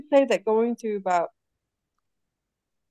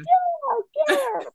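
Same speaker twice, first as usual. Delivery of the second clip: much higher squeaky mock agreement; high squeaky yeah. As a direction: chirp it way up high. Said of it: "Libby's like".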